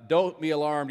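quick Scottish accent, only lightly put on; Desmond's accent. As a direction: toss off a hint of a Scottish accent. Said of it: "imagine kind of Desmond here with that accent".

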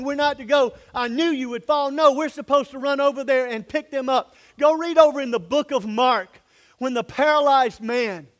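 loud, driving sermon cadence; a preacher at full fire; full-force preaching. Acted. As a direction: preach it to the back row.

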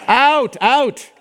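high, urgent mock command; urgent ordering out. Pastor wanting the box gone before deacons see, urgent ordering out.

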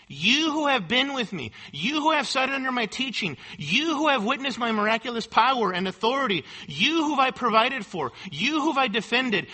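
a hint of Jesus confronting his followers, insistent; Jesus pressing his disciples. Preacher voicing Jesus pressing his disciples, mildly insistent. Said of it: "Jesus zeroes in on them".

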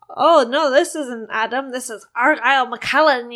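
put-on a goofy roommate faking a Scottish accent. Roommate pranks caller, mild put-on Scottish accent. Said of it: "he's talking in a Scottish accent".

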